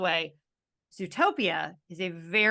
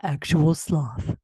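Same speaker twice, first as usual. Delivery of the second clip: super slow sleepy sloth; 3 semitones lower, 6 dB louder, much slower than usual. Pretend.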